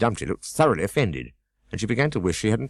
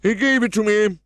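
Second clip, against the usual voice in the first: thoughtfully; 5 dB louder than usual. A narrator's reading. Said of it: "continued thoughtfully".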